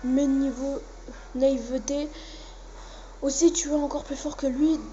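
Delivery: lightly voiced anime fighters trading threats; amateur fandub of tense anime dialogue; dubbing the cutscene characters. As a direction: read the cutscene like a hammed-up anime dub.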